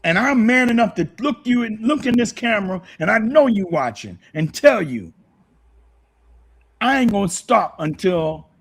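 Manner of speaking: getting emotional. Real, not acted. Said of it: "I got a little emotional".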